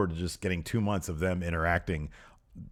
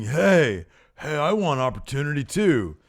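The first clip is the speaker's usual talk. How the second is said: mock indignant call; 6 semitones higher, 5 dB louder than usual. Retells Corbin butting in backstage.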